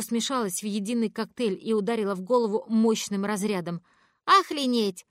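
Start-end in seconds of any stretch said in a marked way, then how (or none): 4.3-5.1 higher, louder outraged cry; outraged at the swearing; indignant. Acted. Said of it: "возмутилась Ванесса". (возмущённо, громко и выше)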